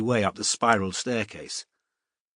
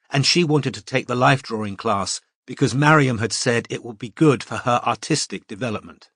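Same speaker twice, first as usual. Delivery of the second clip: usual speaking voice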